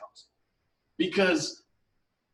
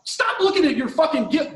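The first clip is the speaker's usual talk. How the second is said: exasperated shout; 6 semitones higher than usual. Real, not acted. Ranting at the woman who peeked, exasperated shout. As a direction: yell at her to stop peeking.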